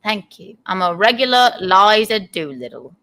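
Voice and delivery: put-on English accent; lightly voiced Cockney flower girl. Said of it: "it's pretty decent".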